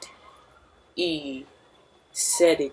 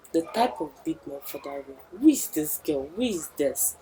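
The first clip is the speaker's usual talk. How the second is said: puzzled prince; 3 semitones lower, 8 dB quieter than usual. Retold or imitated. Prince questions the man.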